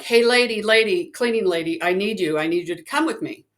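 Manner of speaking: retold urgent hail to a stranger; imitating someone flagging a person down; urgent calling out. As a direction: call out insistently, easing as you go. Stranger running out calling to her.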